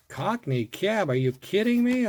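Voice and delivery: high, loud and delighted; can't believe the luck; thrilled disbelief. Real, not acted. Amazed at rare car.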